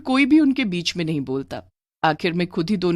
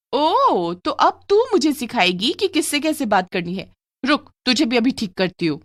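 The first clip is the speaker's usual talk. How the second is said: higher, mocking threat; threatening retort; 5 semitones higher than usual. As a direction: turn on her sarcastically, then threaten. Aunt turns on other niece.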